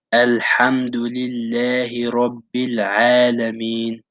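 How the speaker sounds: slow, drawn-out recitation of "Alhamdulillahi Rabbil Alameen"; Quranic recitation. Shown as a demonstration. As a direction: recite the verse slowly as a model. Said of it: "the second verse of Surah Al-Fatiha is".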